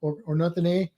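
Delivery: lightly put-on northern, nearly Canadian accent; hint at a far-northern accent; mock northern, almost Canadian accent. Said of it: "That's almost Ca-, Canada, though".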